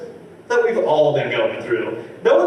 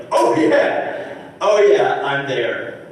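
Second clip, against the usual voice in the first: mock eager yes; 6 dB louder, much slower than usual. Comic accepting the party invite, mock excited. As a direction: leap at the invite, hammed up. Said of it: "And I was like".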